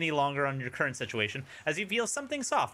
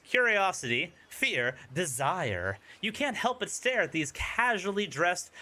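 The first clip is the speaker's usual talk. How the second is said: dramatic scene-setting storyteller voice; spooky campaign narrator; game master narration. Acted. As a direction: paint the eerie beach for the players. GM describes the killers.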